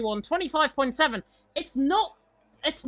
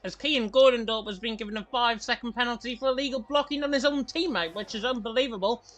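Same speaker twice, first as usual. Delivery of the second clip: ice in mouth. Real, not acted. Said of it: "I've got an ice cube in my mouth".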